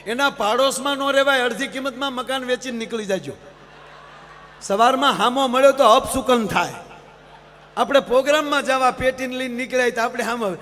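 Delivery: normal talking voice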